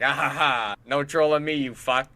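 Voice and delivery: loud retold victory taunt; mock gloating. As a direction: crow over the banned troll. Retells gloating after banning him.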